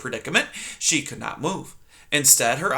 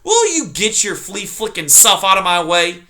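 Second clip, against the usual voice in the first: bellowing porcupine; 6 semitones higher, 6 dB louder than usual. Acted. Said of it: "Aerith bellowed".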